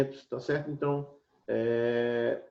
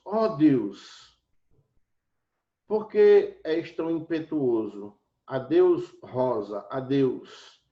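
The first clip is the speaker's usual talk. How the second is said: exclamatory; 3 dB louder, much slower than usual. Shown as a demonstration. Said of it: "O vocativo e apóstrofes ... interjeições".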